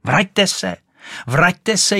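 desperate call after the swimming duck; shrieking. Acted. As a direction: shriek for the duck to come back. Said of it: "ječela Rachejtle".

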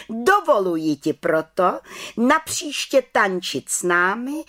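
high-pitched head witch pronouncement; calling out. A narrator's reading. Head witch grants permission to dance, proclaiming. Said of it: "zvolala vrchní čarodějnice".

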